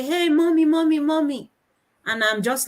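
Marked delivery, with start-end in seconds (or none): 0.0-1.5 high, eager calls for mum; excited child greeting. Retold or imitated. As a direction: call mum over and over, pitched high. Acts child greeting mother excitedly.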